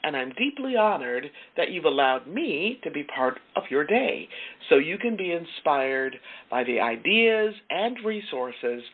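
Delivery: measured, deliberate show opening with lilting stresses; radio host intro. Acted. Host introducing today's program to listeners, polished radio intro. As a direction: present the program in phrases set apart by pauses.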